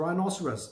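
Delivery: "rhinoceros" said rye-NOSS-er-us; correct pronunciation. Shown as a demonstration. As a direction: say "rhinoceros" with a -serus ending, not -saurs. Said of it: "इसकी pronunciation जो है rhinoceros है".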